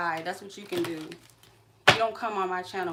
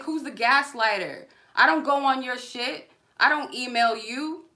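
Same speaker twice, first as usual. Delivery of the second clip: higher, louder, slowing at the end; real rage, pitched up and loud; furious shout; 4 semitones higher, 5 dB louder than usual. Real, not acted. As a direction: shout him down point by point. Yelling at harasser on live.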